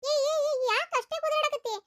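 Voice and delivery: high, sharp cutting-in rebuke. Acted. Girlfriend scolding her boyfriend, high and sharp.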